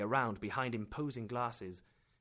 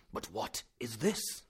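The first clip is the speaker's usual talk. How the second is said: slow wondering exclamation; slower than usual. A narrator's reading. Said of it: "he exclaimed".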